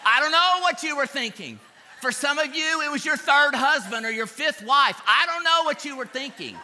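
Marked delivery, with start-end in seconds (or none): 0.1-4.6 laughing through the words, louder. Real, not acted. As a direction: chuckle while teasing the crowd. Joking about bad choices.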